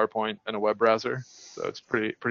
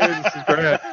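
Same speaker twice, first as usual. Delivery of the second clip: put-on Australian accent; 4 semitones higher than usual. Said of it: "like, a fake Australian accent".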